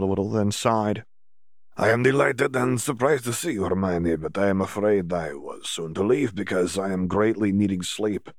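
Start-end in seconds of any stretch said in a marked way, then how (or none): 1.8-8.3 put-on lightly accented, weary young man; a hint of a tired foreign champion; sleepy, polite foreign voice, lightly done; Victor, tired.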